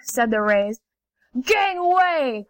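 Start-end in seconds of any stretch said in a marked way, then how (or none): 1.4-2.5 panther call. Acted. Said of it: "called the panthers".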